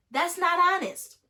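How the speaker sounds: high, loud, slow scold; loud indignant correction. Real, not acted. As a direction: lay it down firmly. Scolding scammer.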